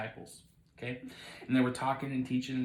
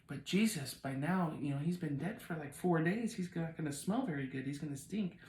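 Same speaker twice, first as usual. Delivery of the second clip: slightly higher, softer protest; worried objection; 4 semitones higher, 4 dB quieter than usual. Acted. Martha objecting to Jesus at the tomb, hesitant protest. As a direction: gently point out the awkward problem.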